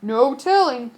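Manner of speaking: put-on lightly gruff old captain. Captain answering the passenger. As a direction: shrug it off like a sea dog. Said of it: "said the captain".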